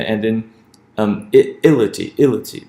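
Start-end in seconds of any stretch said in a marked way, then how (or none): 1.6-2.1 "ility" dicho despacio, sílaba a sílaba; ility sounded out. Shown as a demonstration. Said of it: "because of that itty ending". 2.2-2.7 "ility" repetido, con la sílaba "li" marcada; ility repeated. Shown as a demonstration. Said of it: "because of that itty ending".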